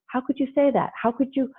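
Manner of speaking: hurt parent. Retold or imitated. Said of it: "you get snagged on".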